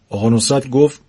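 lively storyteller reading a funny tale; story narration. A narrator's reading. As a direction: read it like a comic bedtime story. Narrator reads humorous story aloud. (روایت داستان طنز)

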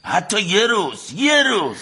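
rising, slowed down insistence; insistent. Acted. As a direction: press the point hard. Bitter argument between brothers.

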